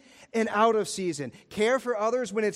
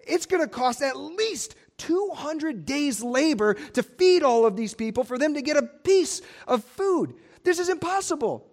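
frantic disciples; 7 semitones higher than usual. Retold or imitated. Philip panicking about feeding the crowd, frantic. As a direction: fret over the cost. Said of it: "they're in this frantic mode".

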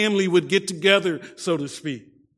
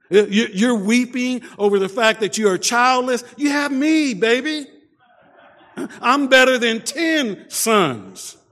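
boastful husband; 5 semitones higher than usual. Retold or imitated. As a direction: lay on the charm, over the top.

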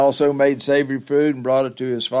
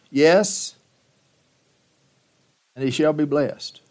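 louder, higher declaration of the blessing; firm pronouncement; 4 semitones higher, 3 dB louder than usual. Acted. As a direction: proclaim it with finality. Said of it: "Now remember that phrase".

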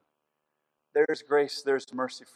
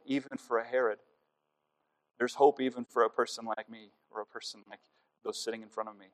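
subdued, slightly lowered praying voice; closing prayer; 3 semitones lower than usual. Real, not acted. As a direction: bring the prayer gently to a close. Closes congregational prayer.

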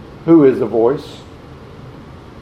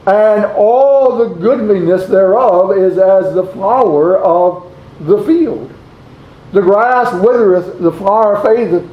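raised, ringing sermon reading of a Bible verse; solemn recitation, pitched up; scripture reading; 4 semitones higher than usual. Acted. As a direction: proclaim the verse to the congregation. Reads scripture aloud in sermon.

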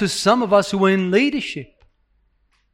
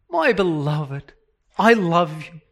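tender; 3 semitones lower, 4 dB quieter than usual. Shown as a demonstration.

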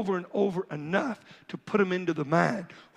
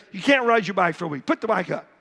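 harsh; 4 dB louder, faster than usual. Shown as a demonstration. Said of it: "That's not the way a godly father does it".

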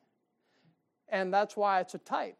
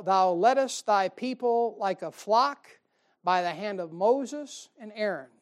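slow, louder solemn reading of the verse; scripture reading; 4 dB louder, slower than usual. Acted. Preacher reading the Psalm to his church, slow and solemn. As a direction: read it out to the flock like holy writ.

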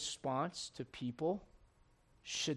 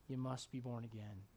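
gentle still voice; 7 semitones lower, 13 dB quieter than usual. Acted. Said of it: "he's saying".

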